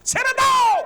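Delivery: sudden high, loud cry; shouted demand. Acted. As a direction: shout it out at full voice. Same plea repeated as a shout. (জোরে চিৎকার)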